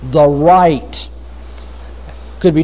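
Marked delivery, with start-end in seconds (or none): 0.1-1.1 "the right" set apart for emphasis; weight on "right", held apart as key words; stress on "right". Real, not acted. Preacher pointing the congregation to a word in the verse, stress on "right". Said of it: "I want to emphasize this word".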